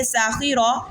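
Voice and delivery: ساخرہ with س thickened like ص; wrong heavy س. Shown as a demonstration. Teacher shows the wrong thick ساخرہ. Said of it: "تو ساخرہ نہیں پڑھیں گے".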